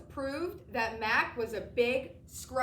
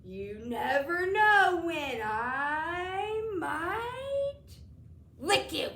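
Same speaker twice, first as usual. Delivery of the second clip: very slow, higher mock-spooky threat; mock terrifying; 5 semitones higher, 4 dB louder, much slower than usual. A narrator's reading. Mac tries to scare the boy, slow mock menace. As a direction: draw it out like a ham horror villain. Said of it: "trying to sound terrifying".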